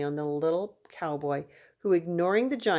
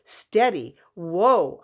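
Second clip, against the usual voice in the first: soothing a horse; 8 dB louder, much slower than usual. Acted. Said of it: "like the cowboy himself".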